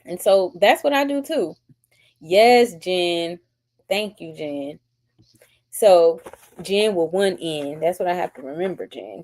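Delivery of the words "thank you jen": whispered thanks. Real, not acted. Aside to chat.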